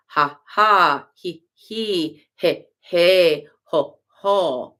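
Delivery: ha ha he he ho ho, voiced as laughter; demonstrating sacred laughter; laugh syllables. Shown as a demonstration. Teacher demonstrating the forms of laughter. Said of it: "these forms of laughter".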